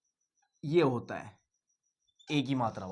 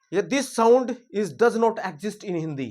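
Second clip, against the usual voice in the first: slow reading aloud; much slower than usual. Shown as a demonstration. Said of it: "ये कहता है भाई".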